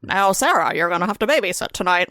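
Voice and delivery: imitating a mid-Atlantic accent; lightly put-on mid-Atlantic parent. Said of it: "weird mid-Atlantic accent".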